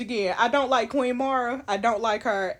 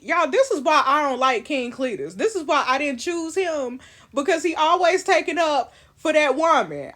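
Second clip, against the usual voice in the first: raised, louder indignant rant at the king; excited rant; 5 semitones higher, 5 dB louder than usual. Real, not acted. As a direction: vent about him, pitch up and loud. Gamer ranting about King Cletus.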